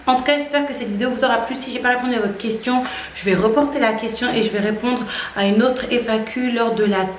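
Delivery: breathless, rushing through the outro; talking while out of breath. Real, not acted. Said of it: "je suis essoufflée".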